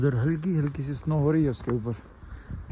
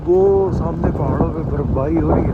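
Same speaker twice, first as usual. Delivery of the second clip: shouting over wind. Real, not acted. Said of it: "इससे ज़्यादा तेज़ मैं बोल नहीं सकता".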